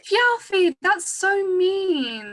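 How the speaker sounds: tearful whine, drawn out slowly; on the verge of tears, pleading; upset child. Acted. Little girl scolding her brother for wanting to eat the goats, tearful.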